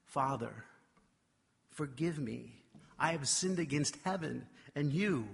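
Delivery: soft, repentant plea; a hint of the kneeling son's plea. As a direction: beg forgiveness quietly. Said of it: "with a pleading and repentant look".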